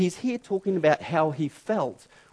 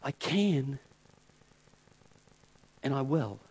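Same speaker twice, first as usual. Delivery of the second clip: softer, lower, calm divine voice; quiet, settled authority; low, soft, unhurried God voice; 7 semitones lower, 6 dB quieter than usual. Pretend. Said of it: "It's like God saying".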